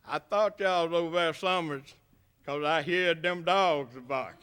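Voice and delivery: put-on old farmer in a lightly done rural Alabama brogue; a hint of a rural Alabama accent. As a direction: tell it easy like a back-country Alabama farmer. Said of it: "it was about like this".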